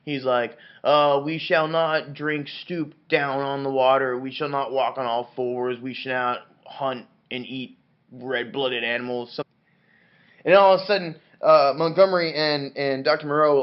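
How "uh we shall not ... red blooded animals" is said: lightly voiced sayer of the laws; a hint of slow, ponderous pronouncement; solemn lawgiver. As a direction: intone it slowly like commandments. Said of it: "all about the laws".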